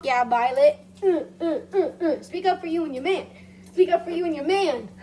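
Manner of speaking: fast, loud cheering; fast cheering encouragement. Retold or imitated. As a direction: hype her up. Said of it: "and I'm like".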